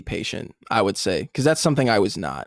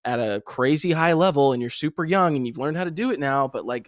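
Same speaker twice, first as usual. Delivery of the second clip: higher, lightly mocking friend telling him to relax; mock calm-down voice; 5 semitones higher than usual. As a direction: play it like patient older players soothing a hothead. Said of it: "And people are like".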